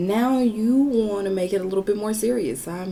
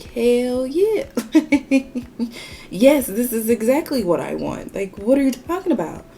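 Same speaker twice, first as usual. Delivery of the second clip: high, loud, incredulous insistence; emphatic yes; 6 semitones higher, 5 dB louder than usual. Retold or imitated. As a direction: insist loudly, as if it were obvious. Retold emphatic answer to his doubt.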